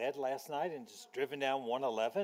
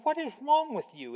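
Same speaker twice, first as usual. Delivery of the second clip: high, sharp scolding hiss of a wife; embarrassed wife snapping at her husband; exasperated wife in public; 11 semitones higher, 5 dB louder than usual. Retold or imitated. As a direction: scold him under your breath in public. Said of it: "in that voice some wives use in public spaces".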